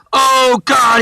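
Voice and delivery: put-on a grown man whining like a little kid; little kid wail. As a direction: groan like a small kid. Tony's little-kid voice continues.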